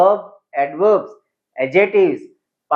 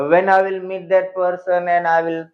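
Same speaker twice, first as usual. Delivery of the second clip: low energy; 2 semitones higher, much slower than usual. Shown as a demonstration. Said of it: "तो ऐसे नहीं".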